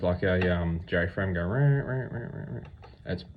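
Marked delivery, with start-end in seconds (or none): 1.4-2.6 imitated duck barks. Shown as a demonstration. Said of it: "they call it barks".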